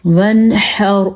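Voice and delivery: وانحر said slowly with the noon fully sounded; clear noon. Shown as a demonstration. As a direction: pronounce the noon in وانحر clearly, no nasal hiding. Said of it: "اس نون کو ہم ظاہر کر کے پڑھیں گے".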